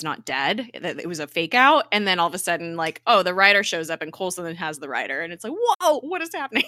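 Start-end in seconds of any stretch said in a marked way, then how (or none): 5.5-6.6 high, loud reaction of disbelief; mock astonishment. Viewer reacting to Ghost Rider suddenly showing up, astonished. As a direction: blurt it out, reeling from the twist. Acts out viewers' shock at twist.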